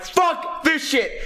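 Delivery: slow, dragged-out disgusted mutter; fed-up kid. Retold or imitated. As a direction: drag it out like a sulking kid. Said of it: "I'm like".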